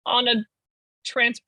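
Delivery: high mocking voice of a critic; imitating an outraged stranger. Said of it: "people are so like".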